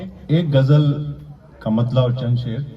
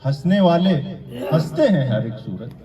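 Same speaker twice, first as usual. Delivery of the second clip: measured declamation with pauses between phrases; mushaira-style verse recitation; poetry recital; 4 semitones higher than usual. Acted. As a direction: recite the couplet to an audience, landing each phrase. Recites ghazal couplets.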